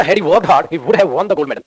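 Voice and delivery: slow, emphatic dictation. Shown as a demonstration. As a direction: drag it out for the class to copy. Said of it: "stress करके बोलना".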